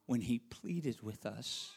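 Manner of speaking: soft, slow and hushed, remembering guilt; hushed remorse. Acted. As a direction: let it sink low and quiet, full of regret. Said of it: "The brothers said".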